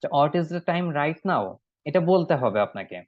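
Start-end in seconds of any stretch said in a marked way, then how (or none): 0.2-1.4 very slow, word by word; teacher modelling slowly; slow model sentence. Shown as a demonstration. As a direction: say it slowly for the class. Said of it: "মুখ দিয়ে বলবো".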